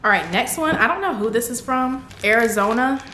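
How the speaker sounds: ordinary talk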